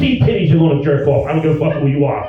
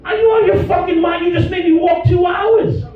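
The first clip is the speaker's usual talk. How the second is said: mock furious yell; 12 semitones higher than usual. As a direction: let her have it. Yelling at wife in bed.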